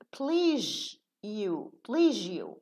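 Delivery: "please you" slowly, the z turned into zh, pleezh-you; linked demo. Shown as a demonstration. Teacher demonstrating to students how please you blends. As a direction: merge the z of "please" into zh before "you". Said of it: "So a za changes into ja".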